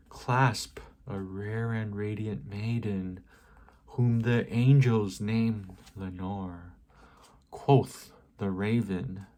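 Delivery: slow, measured recitation with long pauses; poetry reading. Acted. Reading The Raven aloud as poetry, measured dramatic recitation. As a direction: recite the verse line by line, letting each ending drop.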